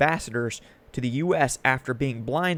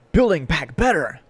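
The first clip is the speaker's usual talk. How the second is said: higher-pitched mocking slogan quote; 3 semitones higher, 4 dB louder than usual. Critic quoting the administration's slogan to viewers, mockingly. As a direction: parrot the slogan in a put-on lilt.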